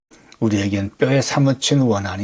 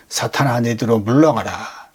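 사탄아 and 물러가라 said a little louder, as a firm scolding; stern rebuke; 3 dB louder than usual. Acted. Preacher voicing Jesus rebuking Peter, a firm scold. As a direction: rebuke Peter with some force, not a full shout. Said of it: "베드로를 사탄이라고 막 야단치세요".

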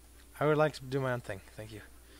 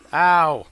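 loud "ow"; pained yelp; 11 dB louder than usual. Pretend. Player getting hit in game, loud yelp.

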